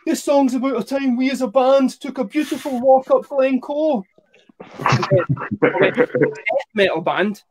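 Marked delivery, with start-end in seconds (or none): 0.1-4.0 lightly voiced gentle folk singer's stage intro. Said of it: "introduced a song by saying".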